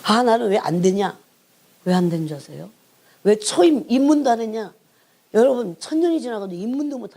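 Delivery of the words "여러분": usual speaking voice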